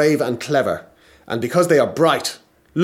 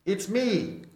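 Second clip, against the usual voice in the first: magician voice; 6 semitones higher, 5 dB quieter than usual. Acted. Magician voice at the door.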